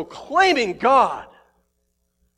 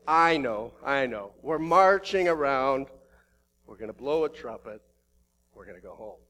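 weary army; 7 semitones lower, 4 dB quieter than usual. Retold or imitated. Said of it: "the army's going".

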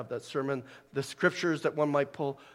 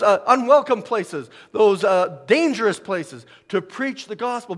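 impassioned preaching; 5 semitones higher, 7 dB louder than usual. Real, not acted. Preaches about missionaries.

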